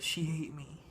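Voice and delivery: a lightly voiced heartbroken monster, slightly off from own voice. The rejected monster telling of his bride in a light monster voice. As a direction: sound hurt, like the rejected monster. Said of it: "And then he says".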